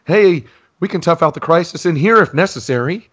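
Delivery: a hammed-up school principal; Mister Belding impression. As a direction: play the pompous principal settling in. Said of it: "He says".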